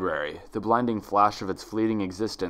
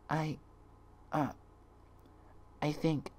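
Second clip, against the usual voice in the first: soft, hesitant and small; timid soft voice; 5 semitones higher, 12 dB quieter than usual. Acted. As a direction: shrink away as you speak. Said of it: "she whispered softly".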